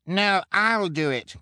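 high, loud, drawn-out protest; slow, emphatic rival volunteer; insistent cry. A narrator's reading. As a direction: cry out over the others, stretching it. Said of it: "Kevin cried".

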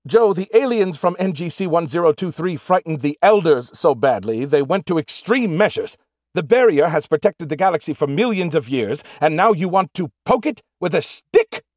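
high, strained screech. A narrator's reading. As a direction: screech it at him, indignant. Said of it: "he screeched".

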